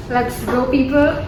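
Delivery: loud upbeat rally call; excited. Real, not acted. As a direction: pump up the viewers. Excited arrival at Google office.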